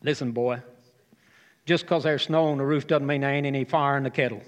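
imitated Southern granddad giving advice; broad Southern accent. Granddad advising his curious grandson, broad Southern accent. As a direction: pass on homely wisdom in a broad Southern accent. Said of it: "broad Southern accent".

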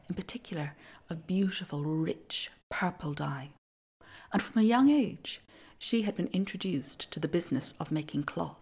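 put-on storyteller voice for an old myth; epic fantasy narrator. A narrator's reading. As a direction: tell it like an ancient legend. Begins telling the Arachne myth.

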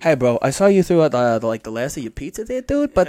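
bro rat. Acted. Voicing rat bro asking beer.

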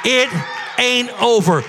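shouted declaration; shouted prophecy. Shown as a demonstration. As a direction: call it out to the whole church. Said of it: "Who can receive that three-word prophecy".

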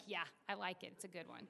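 imitating a patient, low and soft; low-key agreement. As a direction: quietly approve the plan, trailing away.

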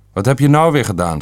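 retelling a father scolding his son, mildly shouted; mild mock shout. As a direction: snap it at the son like the angry father. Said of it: "schreeuwde mijn vader dan".

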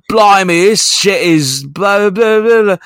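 high, loud mock food reviewer; YouTuber impression. YouTuber tasting KFC on camera, hammed-up reviewer voice. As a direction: imitate a vlogger reacting to a bite, dissolving into blahs. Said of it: "he takes a bite and is like".

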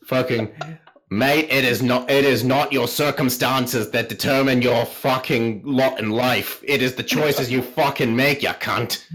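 slow, hammed-up Australian accent lecture; mock Aussie bloke laying down wisdom, Australian accent; shitty Australian accent. The speaker mocks Oz in a shitty Australian accent. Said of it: "my shitty Australian accent".

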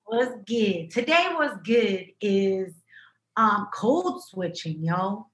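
slow, drawn-out announcer read; mock radio intro; segment intro. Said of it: "if we had a intro".

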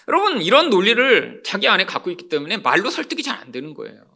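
usual speaking voice

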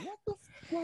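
high, slow, exaggerated disbelief; exasperated outburst. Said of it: "I'll be like".

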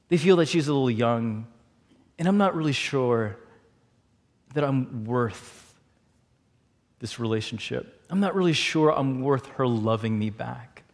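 low, subdued self-doubt; soft, halting confession; vulnerable confiding. Retold or imitated. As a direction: imitate a friend hesitantly admitting he feels unworthy. Friend confides doubts of self-worth.

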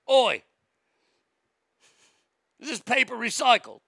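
a loud Oi! then a lightly voiced scold; mock Greta. Mocking Greta nagging people about recycling, mild mock scold. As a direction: nag about paper like a scolding kid. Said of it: "She's like".

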